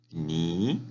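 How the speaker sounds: "ni" dipping low, then rising; third tone. Shown as a demonstration. Teacher giving the word for tú, dipping-rising tone. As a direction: let "ni" fall and curl upward. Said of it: "Tercer tono".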